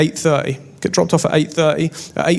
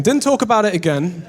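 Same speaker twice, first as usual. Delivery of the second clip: laughing repeat; 3 semitones higher than usual. Shown as a demonstration. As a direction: repeat "Didn't talk about it again" through a laugh with a rising end. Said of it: "and we didn't talk about it again".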